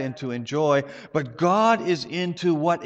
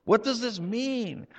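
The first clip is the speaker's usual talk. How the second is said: higher, wondering question; puzzled wondering; 8 semitones higher than usual. Real, not acted. Preacher asking the congregation in puzzled wonder. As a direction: ask it with genuine bafflement, stress on does. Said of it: "puzzled question repeated".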